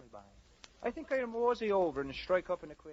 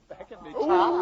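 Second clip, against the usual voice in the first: laughing; 5 semitones higher, 8 dB louder than usual. Real, not acted. Cracking up mid-line.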